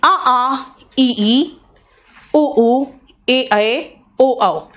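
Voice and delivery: each vowel said twice, carefully; vowel sounds demo. Shown as a demonstration. Teacher reciting vowels for students to hear. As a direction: clear vowel drill, one by one. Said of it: "pronunciation सुनो".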